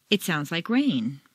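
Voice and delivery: rain carries the stress as new information; "rain" said as the key new word, everything else light. Shown as a demonstration. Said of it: "Rain is the new information".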